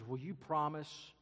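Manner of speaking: put-on nervous girl pleading, pitched a little high; mildly anxious girlish plea; frightened girl. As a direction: ask warily, rising as you go. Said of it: "she looks at the lion and says".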